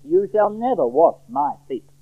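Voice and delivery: slow, weighted "never" in a refusal; deliberate emphasis on "never" and "my"; very emphatic. Acted. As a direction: spell out the refusal slowly, leaning on "never". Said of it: "very emphatic".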